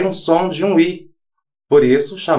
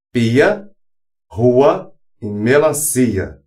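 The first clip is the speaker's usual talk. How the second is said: slow syllable demo; slower than usual. Shown as a demonstration. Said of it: "duas vogais separadas".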